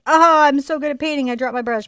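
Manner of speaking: hammed-up show-off voice; mock boasting. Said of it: "Not like".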